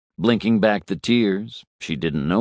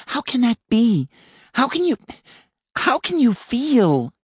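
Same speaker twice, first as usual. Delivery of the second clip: almost shouting. A narrator's reading. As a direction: nearly cry it out, high. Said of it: "She was almost shouting".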